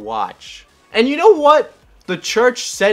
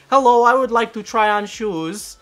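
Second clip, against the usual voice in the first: put-on Russian accent; 6 semitones higher, 4 dB louder than usual. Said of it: "because that's how Russian people speak".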